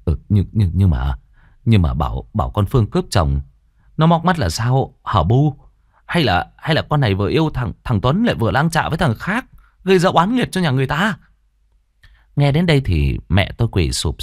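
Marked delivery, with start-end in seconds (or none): 0.0-11.2 frightened stammer. Acted. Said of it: "lắp bắp hỏi".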